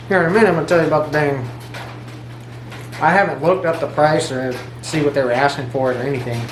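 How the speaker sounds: talking while chewing; mouth full. Real, not acted. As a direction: speak around a mouthful. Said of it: "Sorry for talking with my mouth full".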